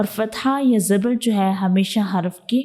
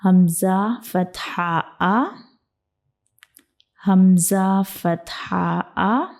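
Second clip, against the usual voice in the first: steady, even letter-by-letter reading; measured teacher's model reading; careful recitation; much slower than usual. Shown as a demonstration. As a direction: recite each letter name cleanly. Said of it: "आपने सही इसको पढ़ना है".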